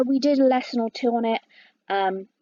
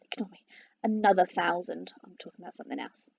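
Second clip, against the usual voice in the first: whispered aside; 5 semitones lower, 7 dB quieter, faster than usual. Real, not acted. Muttered self-correction after apology.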